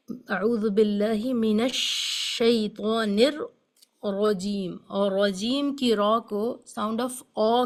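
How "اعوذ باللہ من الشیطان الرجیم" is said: اعوذ باللہ recited slow and measured; slow recitation. Shown as a demonstration. Teacher reciting the full phrase for students. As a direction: recite it slowly, as in Quran reading. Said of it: "recites correct full taawwudh".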